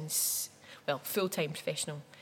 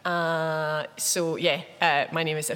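silly schoolgirl voice; 7 dB louder, slower than usual. Pretend. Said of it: "I'll stop doing the silly schoolgirl voice".

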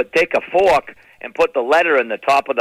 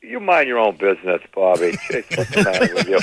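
aunt snapping back; 5 semitones lower than usual. Retold or imitated. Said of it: "I said".

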